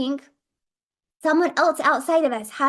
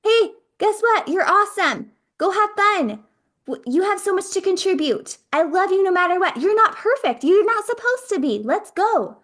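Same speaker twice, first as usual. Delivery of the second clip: upbeat inner cheerleader; 5 semitones higher than usual. Acted. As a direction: cheer yourself on like a best friend. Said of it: "We're gonna be like".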